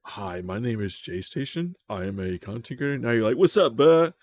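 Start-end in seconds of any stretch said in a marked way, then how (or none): 0.0-3.0 softer, careful proper diction; a stiff, polite intro voice; mock-polished self-introduction for the camera; proper YouTube voice. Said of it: "Why are you talking differently?". 3.4-4.1 louder, higher slang greeting; exaggerated street-talk greeting for the camera. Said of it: "Why are you talking differently?".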